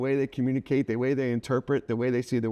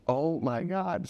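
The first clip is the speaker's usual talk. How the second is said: stunned amazement; 5 semitones higher, much slower than usual. Retold or imitated. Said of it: "I was just like".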